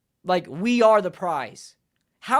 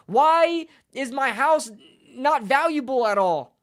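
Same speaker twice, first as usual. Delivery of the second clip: hammed-up despairing wail, higher and louder; mock wailing scream; 8 semitones higher, 5 dB louder than usual. A sulking fan screaming at his walls, hammed-up wail. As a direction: lament to the walls like a ruined man. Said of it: "just screaming at the wall saying".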